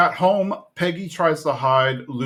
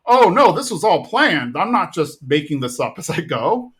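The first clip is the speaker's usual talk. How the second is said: mock casual cover; 4 semitones higher, 4 dB louder than usual. Recapping a panicked cover story.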